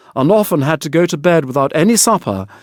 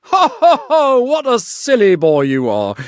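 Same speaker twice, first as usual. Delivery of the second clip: booming higher mock laugh, ho ho ho; 9 semitones higher than usual. A narrator's reading. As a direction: scoff at the boy with a big laugh. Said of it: "cried the miller".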